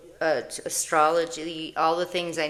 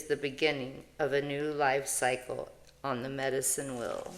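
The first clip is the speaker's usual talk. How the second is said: reading card text; 4 dB louder than usual. Acted. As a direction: intone the card like a prayer. Reads the Heron card text.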